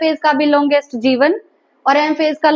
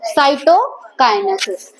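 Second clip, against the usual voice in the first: slow term; much slower than usual. Shown as a demonstration. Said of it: "division of cytoplasm को क्या बोलते हैं?".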